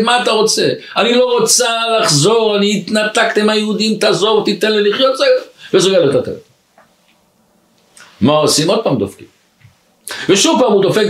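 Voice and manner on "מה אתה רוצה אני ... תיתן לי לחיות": higher-pitched retold outburst; mock yelling. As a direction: act out her exasperated rant, no real shouting. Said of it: "ובסוף היא נשברה, עוד פעם פותחת וצועקת". (צעקה מעושה בטון גבוה)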